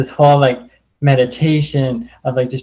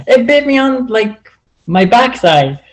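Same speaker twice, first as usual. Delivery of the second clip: retold complaint; 8 semitones higher than usual. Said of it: "And I'm like".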